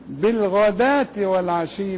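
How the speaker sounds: "بالغداة والعشي" slow, ending in a rising tune; recitation. Shown as a demonstration. Sheikh recites the verse for students, slow. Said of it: "دال وألف وهاء".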